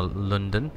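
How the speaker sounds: put-on "London" in a tentative older pronunciation; alternative pronunciation. Shown as a demonstration. Player guessing at an old town name, alternative pronunciation. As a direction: offer "London" as an Old English-style variant. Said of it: "how you pronounce it".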